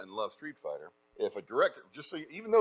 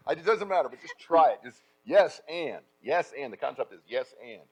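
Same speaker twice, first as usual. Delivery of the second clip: ordinary delivery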